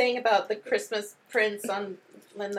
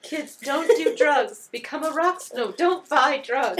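rock star voice; 5 semitones higher, 4 dB louder than usual. Retold or imitated. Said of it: "It's like".

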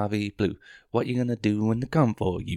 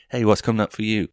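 mock game show host; 3 semitones higher, 8 dB louder than usual. Host addressing audience in bit.

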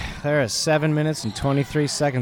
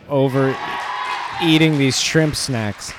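mock despair shout; 6 dB louder than usual.

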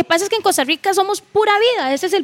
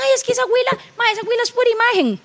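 higher-pitched imitation of critics; put-on higher voice for petty criticism; mocking critics; 8 semitones higher, faster than usual. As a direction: quote the critics in a raised, quickened voice. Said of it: "me critican".

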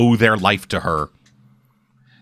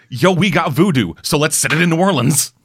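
mocking quote; 4 semitones higher than usual. Mimicking lazy writers' pitch.

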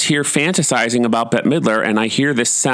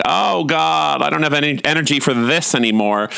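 higher-pitched theatrical weariness; mock exhaustion; 5 semitones higher than usual. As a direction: groan it like a worn-out performer. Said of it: "looking exhausted and just leaned against the wall".

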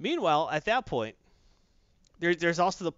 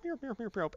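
meowing; 6 semitones higher, 8 dB quieter than usual. Retold or imitated. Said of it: "the power of Grayskull to go meow".

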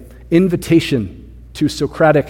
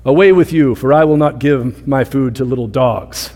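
austere rebuke. Retold or imitated. Preacher imitating an austere Jesus dismissing the woman, mildly stern. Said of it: "a very austere Jesus being like".

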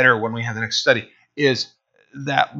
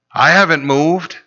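deadpan farmer; 2 semitones higher than usual. Retold or imitated.

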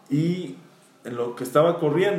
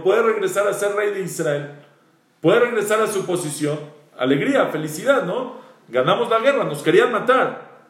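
higher, eager report of victory; joyful news; 3 semitones higher than usual. Retold or imitated. Messenger telling David the rebellion is over, elated. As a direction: announce the good news with relief.

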